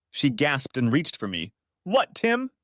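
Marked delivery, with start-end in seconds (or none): 1.8-2.5 very high startled question; wife reaching for her husband in shock; gasping shock. Acted. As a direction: gasp out his name.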